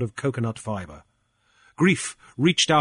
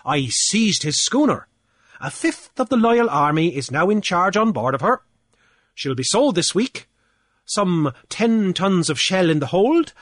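pompous official, pitched higher, boasting; blustering Cornelius; 7 semitones higher than usual. Acted. Cornelius gloating to Grief over the fines, higher and pompous. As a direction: puff up like a petty island official lording it.

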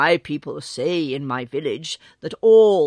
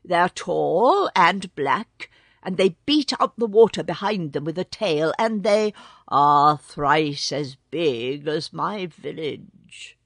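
adjutant bird voice; 3 semitones higher, 5 dB louder than usual. Acted. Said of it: "said the adjutant".

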